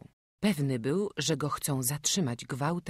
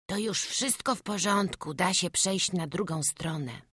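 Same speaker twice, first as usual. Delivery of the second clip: lightly voiced child, a little higher; reassured little boy; 5 semitones higher than usual. Runaway boy finds the bridge, lightly voiced relief. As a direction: reassure yourself as a small boy.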